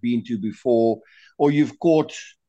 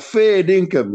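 "Fair dinkum" higher and louder, stress on "Fair"; punchy fair dinkum; 5 semitones higher, 5 dB louder, slower than usual. Retold or imitated. Retelling the Aussie reaction, quick emphatic exclamation.

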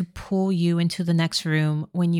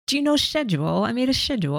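put-on British accent; 3 semitones higher, much faster than usual. Co-host echoing the schedule line, mock British accent. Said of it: "which British accent is that".

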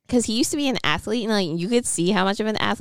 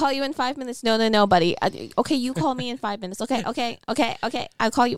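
higher, flustered, placating dad; mock dad on phone; 5 semitones higher than usual. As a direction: try to hang up on an eager son. Acting out Buddy's dad.

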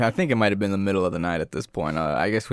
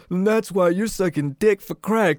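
imitated street argument; 10 semitones higher than usual. Arguer in the alleyway accusing a partner, high mock outrage. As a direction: hurl it like a quarrelling passerby. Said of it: "a guy and a girl arguing".

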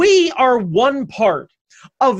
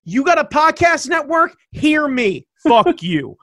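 mock trash talk; 4 semitones higher than usual. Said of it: "this is my new persona".

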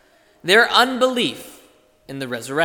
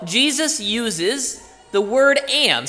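slow, with "am" set apart and held; slow down and lean on "am"; stress on am; 4 semitones higher, slower than usual. Shown as a demonstration. Preacher drawing attention to one small word, stressing "am". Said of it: "specifically the present tense of the word am".

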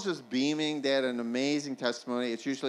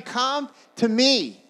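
loud, high, drawn-out call; shouting; 11 semitones higher, 11 dB louder, much slower than usual. Acted. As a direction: shout it out, stretching each word. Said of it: "he's shouting".

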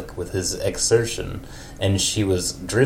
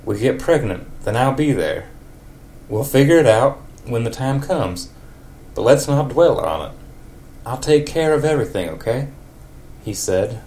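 a hint of a country neighbour. In a country accent, Ned tells Marge it was wonderful. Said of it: "a super country voice for Ned".

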